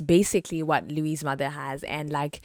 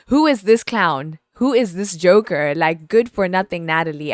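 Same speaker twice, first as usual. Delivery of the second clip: indignant rant; 7 dB louder than usual. Real, not acted. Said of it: "ranting at the character".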